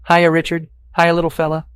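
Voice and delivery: high, loud pet greeting; talking to a dog. Acted. Stranger strokes the dog and greets it, high pet talk. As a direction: coo up high at a little dog.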